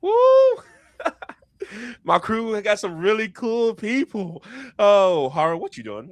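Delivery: high, excited in-character voice; Briar. Acted. Captain cheering his crew's cool people, excited high voice. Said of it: "as Briar, uh, he kinda walks by, he goes".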